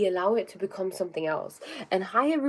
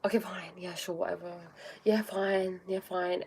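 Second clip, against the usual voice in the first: softer, resigned mumble of agreement; grudging giving in; 6 dB quieter than usual. Retold or imitated. Voicing the people-pleaser who can't say no, resigned. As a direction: sigh it out like you have no choice. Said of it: "The opposite of that is".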